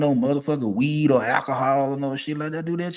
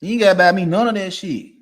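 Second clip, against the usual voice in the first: louder, hit gotta hard; louder emphatic take; 3 semitones higher, 5 dB louder than usual. Acted. Ranting about being called spoiled, loud emphatic repeat. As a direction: drive the point home. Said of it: "repeated line, second take".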